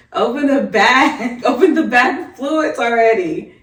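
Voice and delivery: mild mock yell, drawn out; slow, laughing imitation of a yelled order; retold yelling. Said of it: "me yelling at".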